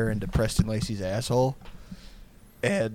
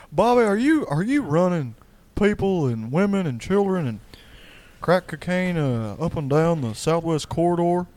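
higher Texan dad interrogation; Hank Hill impression; 6 semitones higher than usual. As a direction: grill your son like a cartoon dad.

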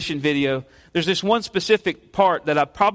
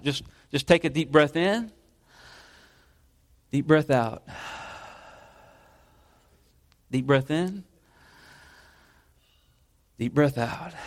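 guided breathing; 3 semitones lower, 5 dB quieter than usual. Shown as a demonstration. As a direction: talk the congregation through a deep breath. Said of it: "we can even do it now".

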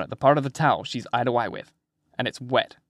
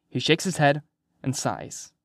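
usual speaking voice

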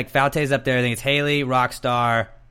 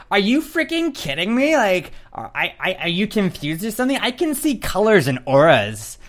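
much higher, shrill-free exaggerated disbelief; high mocking rant; mock outraged Caitlyn; 8 semitones higher, 3 dB louder than usual. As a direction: play her indignant and unhinged. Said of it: "she's like".

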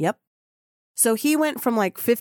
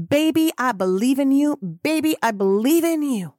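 rising cheerleader; 5 semitones higher, 3 dB louder than usual. Real, not acted. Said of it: "Michelle is here to say that to you".

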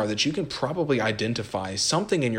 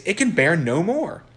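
higher, louder desperate cry; anguished plea; 8 semitones higher, 6 dB louder than usual. Acted. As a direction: beg with rising anguish. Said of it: "exclaimed Fides".

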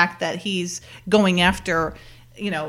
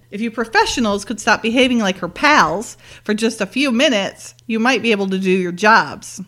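mildly exasperated lecture, building louder; a little annoyed; 3 dB louder than usual. Retold or imitated. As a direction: imitate a boss scolding the team. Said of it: "He kinda gets a little annoyed, too".

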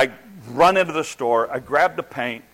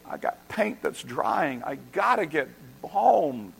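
desperate plea; slower than usual. Retold or imitated. Desperate plea while paint dries.

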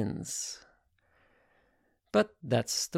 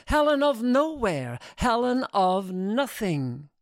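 dismissive retort; 6 semitones higher than usual. Acted. She rejects his praise.

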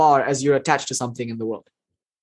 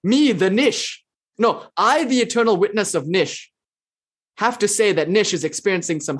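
cuckoo third-person talker; 3 semitones higher than usual. Pretend. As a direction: parody a guru who speaks of himself in the third person. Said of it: "That's weird and cuckoo crazy".

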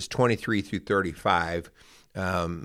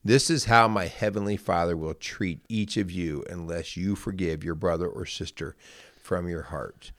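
measured, careful Bible reading aloud; scripture reading. Acted. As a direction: read the parable to listeners at an even pace. Reads Bible parable aloud.

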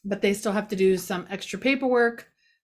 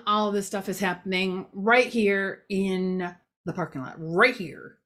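funny voice. Real, not acted. Vlogger describing the parking lot, drifting into a mild funny voice. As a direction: slide into a silly voice mid-sentence without meaning to. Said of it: "I am suddenly doing that voice".

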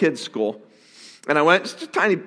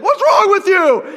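higher, louder, slow mock yell; retold yell; 13 semitones higher, 5 dB louder, slower than usual. Pastor retells yelling at the kids who won't stand, slow mock yell. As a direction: snap at the kids in a hammed-up yell. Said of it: "I kinda yelled at them".

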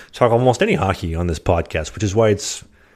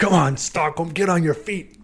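higher, rock star crowd call; rally the arena; hyping a crowd; 8 semitones higher than usual. Acted.

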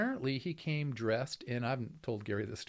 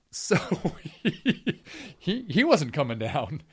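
laughing through the words; chuckling while telling it; 5 semitones higher, 8 dB louder, slower than usual. Real, not acted. Laughing at absurd story.

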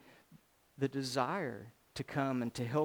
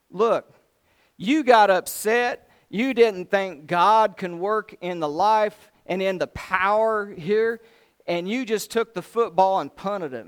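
louder, scolding the king hard; Elisha's rebuke; 4 semitones higher, 8 dB louder than usual. Retold or imitated. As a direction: preach it like a prophet calling him out.

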